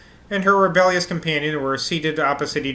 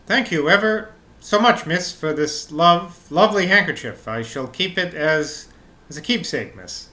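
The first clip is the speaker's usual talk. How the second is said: grateful maid. Acted. Maid thanks miss for a handkerchief, grateful and halting. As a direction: thank your mistress haltingly, as a servant.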